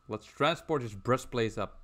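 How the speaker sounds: words tripping over each other; fumbled phrase, mouth not keeping up; tongue-tied stumble. Real, not acted. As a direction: rush it and trip on "breastplate". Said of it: "I can't even talk right now".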